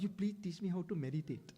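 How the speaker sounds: quoting the plea through laughter; amused retelling of a heartbroken friend's plea; laughing retelling. Retold or imitated. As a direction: chuckle while repeating his plea. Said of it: "The real story I'm telling".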